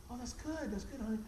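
gentle mock reassurance; soothing. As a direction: humor someone to settle them down. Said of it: "She's trying to calm me down".

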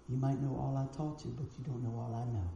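a hushed lesson from the master; quiet murmur. Retold or imitated. Grandmaster murmurs softly into the student's ear. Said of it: "he whispered these words in my ears".

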